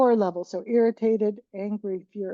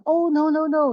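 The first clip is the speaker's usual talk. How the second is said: dismissive hushing; 7 semitones higher, 4 dB louder than usual. Retold or imitated. Impulse to hush upset person.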